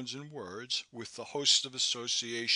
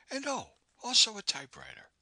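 light laugh; 12 semitones higher, 4 dB louder, faster than usual. A narrator's reading. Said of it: "she laughed".

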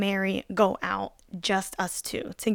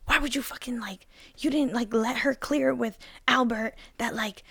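mock angry; 3 semitones higher than usual. Friend's guy scolds her for bringing someone over, mock upset. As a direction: imitate an upset guy telling her off, without shouting. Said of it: "he looks, like, super pissed off and upset".

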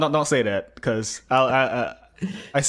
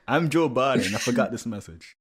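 mock old politician voice; laughing through a mock Biden; Joe Biden; 3 semitones higher than usual. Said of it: "You trying to be Joe Biden?".

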